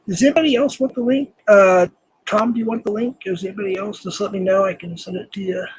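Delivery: ordinary talk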